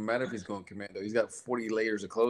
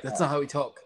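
a touch higher, lightly voiced complaint; mock offended local; 6 semitones higher, 5 dB louder than usual. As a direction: play a miffed listener objecting. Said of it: "They're gonna be like".

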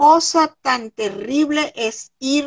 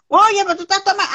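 mock surprised reproach; 7 semitones higher, faster than usual. Mimicking people's reproach.

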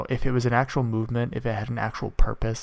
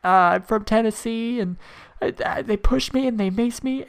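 high, whiny, tearful squeal, much higher; mock crying girl; 13 semitones higher, 4 dB louder than usual. Mocking the crying girl from Tennessee, high whiny sob. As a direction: play the sobbing rioter, squeaky and pitiful. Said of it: "she's like".

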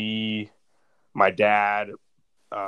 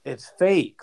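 panicked denial; 7 semitones higher, 4 dB louder than usual. Retold or imitated. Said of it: "And I'm like".

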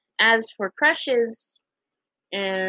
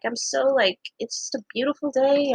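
mild faked cheer; put-on happiness; 4 semitones higher than usual. Girl trying to seem happy to a classmate, put-on cheer. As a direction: gush lightly, not quite meaning it. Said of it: "talking out of my ass".

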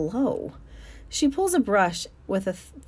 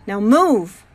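barked order; 9 dB louder than usual. Acted. Mac orders the elephant.

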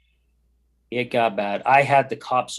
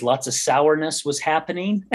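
laughing; 4 semitones higher than usual. Real, not acted. Joking about the hard years.

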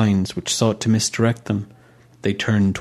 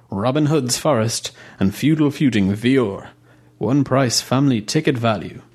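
advert announcer voice; 3 semitones higher than usual. Acted. Road sign read aloud.

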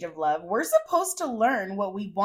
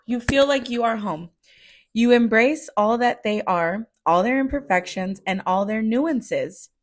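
emotional reading; 4 dB louder than usual. Real, not acted. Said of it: "get my emotions together".

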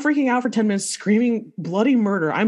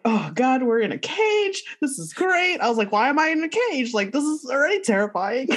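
mock panic; 7 semitones higher than usual. Retelling panic in ride cage.

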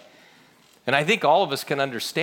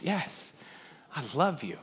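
very soft, halting declaration; subdued answer; 10 dB quieter than usual. Acted. Peter answering Jesus the first time, subdued. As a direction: answer quietly, pausing after the yes.

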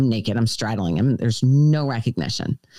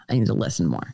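low, mocking singsong of the advice; mocking repeat; 6 semitones lower than usual. Tired of hearing it, mocking the advice in a low voice. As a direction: parrot the lecture back with a sneer. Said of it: "I heard that so much for months".

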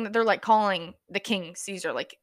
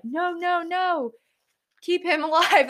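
higher-pitched, lightly acted objection; mock protest; 7 semitones higher, slower than usual. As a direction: play at pleading against the crowd. Voices an imagined objector.

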